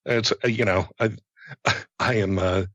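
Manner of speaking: halting, stumbling over words; stuttering. Real, not acted. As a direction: mutter and stammer through it. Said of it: "muttering and stuttering".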